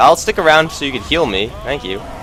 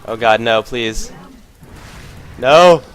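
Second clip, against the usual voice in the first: anguished denial; slower than usual. Real, not acted. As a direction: beg it not to happen. Still near death, pleading.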